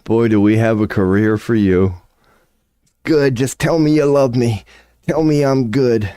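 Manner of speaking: smooth recruiter. Retold or imitated. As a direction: pitch it like a smarmy recruiter.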